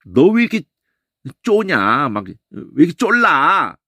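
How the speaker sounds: slow, pushy complaint; mock nagging. Shown as a demonstration. Preacher showing the Korean word 쪼냐 as a nagging complaint. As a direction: needle someone about being pushy. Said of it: "그 우리말에 있단 말이야".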